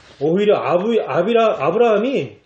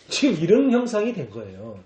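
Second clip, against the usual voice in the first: ordinary talk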